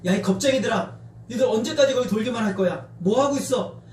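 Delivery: acted jeering at the enemy; lively mock challenge; mocking taunt. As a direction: needle them with scornful questions. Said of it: "조롱하기 시작하는 거예요".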